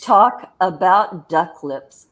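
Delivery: slow, measured announcement; deliberate topic launch. Real, not acted. Co-host launching the duck lips topic, deliberate announcement. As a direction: draw each word out deliberately.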